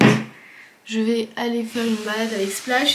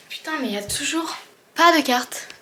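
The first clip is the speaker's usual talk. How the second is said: higher, exasperated complaint; 4 semitones higher than usual. Real, not acted. Exasperated at finding no map.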